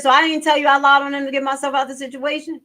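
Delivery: mock-incredulous rereading of his words; incredulous repeat. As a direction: throw his words back in disbelief. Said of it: "He said".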